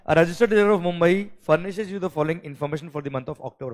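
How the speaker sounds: reading the problem out slowly and clearly; measured exam-question dictation. Shown as a demonstration. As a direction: dictate each word to the class. Teacher reads question aloud.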